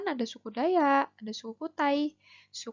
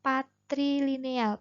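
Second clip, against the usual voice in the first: slow spelled-out term; 2 semitones higher, slower than usual. Shown as a demonstration. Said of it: "Yang pertama adalah patrilineal".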